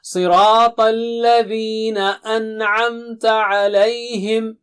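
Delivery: a measured, chanted reading; full recitation. Shown as a demonstration. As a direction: recite the whole phrase in tajweed style. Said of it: "the part completely once".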